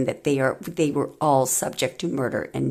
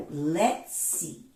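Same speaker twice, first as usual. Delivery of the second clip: quiet follow-up; 7 dB quieter than usual. Shown as a demonstration. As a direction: murmur it back down. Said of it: "teasing build-up to the reading".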